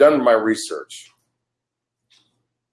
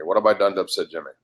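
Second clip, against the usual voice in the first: repeated faster and lower, under the breath; fast low mutter; 4 semitones lower, 4 dB quieter, faster than usual. Real, not acted. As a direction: rush it low, muttering to yourself.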